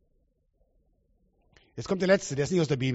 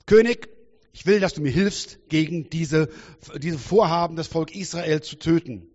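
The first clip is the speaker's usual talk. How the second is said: Esther's demand; 3 dB louder than usual. Retold or imitated. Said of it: "und sagt".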